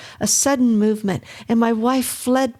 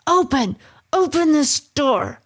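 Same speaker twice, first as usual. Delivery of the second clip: loud, raised furious demand; shouting; 7 semitones higher, 3 dB louder than usual. A narrator's reading. Husband shouting at wife through the bedroom door. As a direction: pound out the order at the locked door. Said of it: "I shouted".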